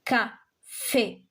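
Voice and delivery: "Café" split slowly into ca and fé; teacher's syllable-by-syllable "Café"; accented final é. Shown as a demonstration. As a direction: sound out the last é of "Café". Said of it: "because of the accent".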